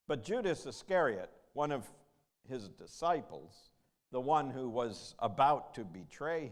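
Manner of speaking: measured, emphatic gospel reading; formal reading with falling phrase ends; scripture reading. A narrator's reading. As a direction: read it aloud to a congregation, phrase by phrase. Reads the gospel aloud to congregation.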